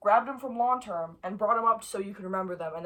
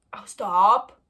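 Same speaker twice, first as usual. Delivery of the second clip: startled shout; 11 dB louder than usual. Real, not acted. Bug moves again.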